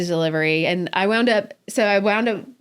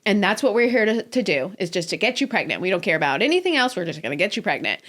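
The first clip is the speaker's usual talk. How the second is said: matter-of-fact doctor; faster than usual. Retold or imitated. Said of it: "very matter of fact and direct".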